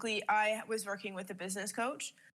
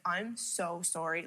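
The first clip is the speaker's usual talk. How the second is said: apologetic; 3 semitones lower, slower than usual. Retold or imitated. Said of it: "I was in tears on voice notes".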